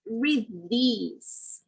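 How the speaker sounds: "read these" slowly, th turned to a d. Shown as a demonstration. Teacher demonstrating for learners, slow "read these" with TH as D. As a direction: say "these" as "dese" after "read". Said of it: "more like a D sound".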